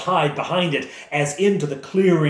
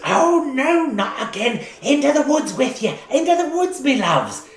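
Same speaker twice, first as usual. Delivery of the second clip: put-on higher, louder old lady shooing her pets; shooing old woman; 12 semitones higher, 4 dB louder than usual. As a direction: shoo the wolves off like a fussy granny. Old woman shoos the wolves.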